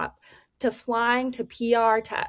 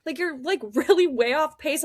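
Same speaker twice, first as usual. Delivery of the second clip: higher, lightly mocking concerned voice; imitating the crew; 6 semitones higher than usual. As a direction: play the puzzled team asking what's wrong. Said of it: "And everyone's like".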